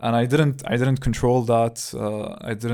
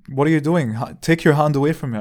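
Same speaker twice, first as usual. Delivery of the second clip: put-on annoyed old woman; 4 semitones higher, 6 dB louder than usual. Old woman scolding him.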